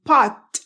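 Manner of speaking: "pot" with the final T held back, not released; "pot" cut off on a silent T; unreleased T. Shown as a demonstration. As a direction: stop the T of "pot" without a puff. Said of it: "no explotan la T".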